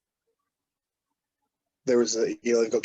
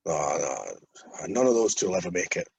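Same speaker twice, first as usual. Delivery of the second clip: quoting Marty; 6 semitones lower than usual. Retold or imitated. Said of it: "he's like".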